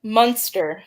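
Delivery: Munster said with an open ah vowel, mahn-ster; imitating accent. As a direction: mimic her odd Munster vowel. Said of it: "a lot of people say I say it weird".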